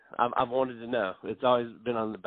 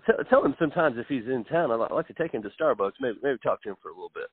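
boss impression. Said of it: "I do this impersonation".

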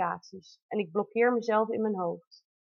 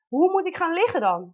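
high, louder mock cry of alarm; retold cry; 7 semitones higher, 4 dB louder than usual. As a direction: call it out half-panicked. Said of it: "Ik weet nog dat ik riep". (halfgespeelde paniekerige roep)

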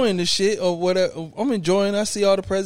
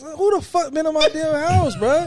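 high-pitched, increasingly loud protest; retold outrage; 10 semitones higher, 4 dB louder than usual. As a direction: build into an indignant shout. Retells outrage at someone entering.

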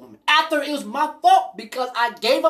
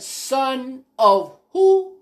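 slow disbelief; much slower than usual. Retold or imitated.

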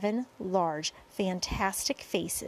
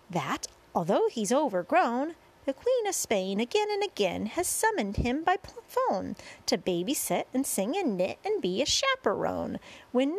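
lightly performed showman's rhyming patter; sing-song verse introduction; 5 semitones higher than usual. A narrator's reading. Boy introducing centipede to crowd, sing-song verse. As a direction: present each guest in bouncy rhyme.

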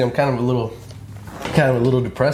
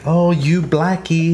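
mock bigot voice; 4 semitones higher, much slower than usual. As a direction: ham up an old bigot. Quoting a racist songwriter.

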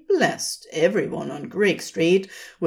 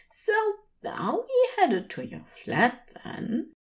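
higher angel voice with a giggle; teasing laugh; 4 dB quieter than usual. Acted. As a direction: tease him hopefully, laughing. Aziraphale teasing, laugh heard.

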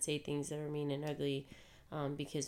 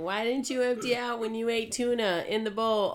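mocking nag voice; 7 semitones higher, 6 dB louder than usual. Wife mimics husband's nagging.

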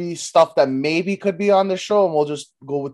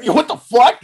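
quick startled yelp, louder; fast reaction yo what the fuck; 6 semitones higher, 6 dB louder than usual. Retold or imitated. A fast reaction to a shock, startled loud yelp. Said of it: "fast reaction".

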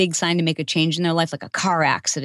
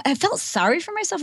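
ordinary delivery

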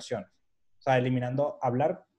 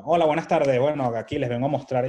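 put-on Venezuelan accent slipping out; 6 dB louder than usual. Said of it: "había logrado disimular un excelente castellano".

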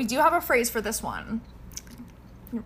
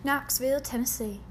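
put-on Tennessee southern; name the town in a southern accent; 4 dB quieter than usual. Host placing her city slicker, southern accent. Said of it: "Whenever I try to do southern".

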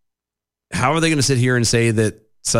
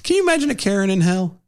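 excited; 10 semitones higher, faster than usual. Real, not acted. Excited joke.

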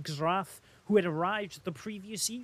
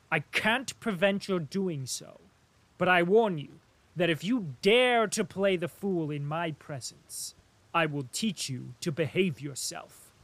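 sharp and louder, a stern warning; sharp rebuke rising to a threat; 5 dB louder than usual. Acted. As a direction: cut him down with a cold threat. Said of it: "he said sharply".

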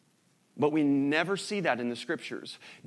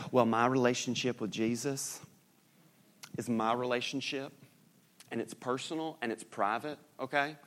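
a light imitation of a Southern woman, softer; lightly put-on Southern lady, gently mocking; 2 semitones lower, 5 dB quieter than usual. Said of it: "I always go into a Southern woman".

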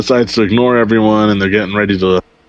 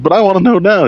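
whiny Homer; 12 semitones higher, 4 dB louder, faster than usual. Retold or imitated. Homer whining to God.

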